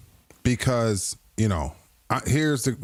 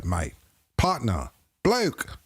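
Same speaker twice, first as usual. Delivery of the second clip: mock British accent; slower than usual. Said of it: "mixing British with Australian".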